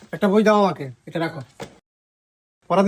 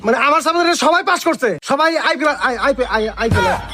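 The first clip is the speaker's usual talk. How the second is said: flustered boasting; 2 semitones higher than usual. Acted. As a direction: cover the slip with a raised-pitch brag. Teacher hastily corrects his boast.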